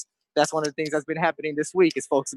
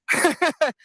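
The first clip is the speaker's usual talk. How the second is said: short laugh; 11 semitones higher than usual. Real, not acted. Reacting to a great compliment.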